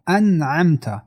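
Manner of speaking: crisp n in انعمت, no nasal blending; clear unhidden n. Shown as a demonstration. Teacher showing izhar in انعمت, clear n. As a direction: sound the n of انعمت fully before the throat letter.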